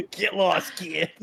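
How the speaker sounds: hammed-up high brush-off between laughs; mock brush-off.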